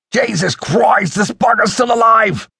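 high-pitched, startled yell; stretched-out, panicked exclamation; shocked shout. A narrator's reading. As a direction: cry out in alarm at a shocking discovery. Joel finds the body is alive.

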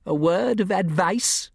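a hint of a wary gentleman; Larson voice. A narrator's reading. Larson's voice in story.

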